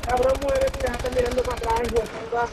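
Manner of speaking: angry gamer yelling. Real, not acted. Insultando a un zombi.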